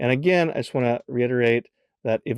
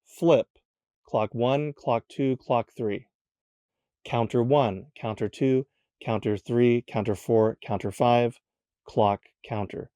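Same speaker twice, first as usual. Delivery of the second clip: counting each move aloud. Shown as a demonstration. Teacher showing the cube solve by counting every turn aloud. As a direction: call out every turn as a separate count, steady and even. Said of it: "I would say it like this".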